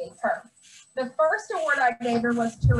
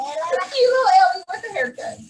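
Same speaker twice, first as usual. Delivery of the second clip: tearful; 6 semitones higher, 6 dB louder than usual. Real, not acted. Teacher gets emotional at awards.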